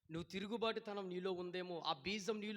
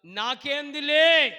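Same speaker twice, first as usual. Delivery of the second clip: loud, drawn-out brush-off; acted couldn't-care-less yell; defiant dismissal; 6 semitones higher, 20 dB louder, much slower than usual. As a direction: shout it higher and slow, refusing to care. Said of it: "అనే తనం".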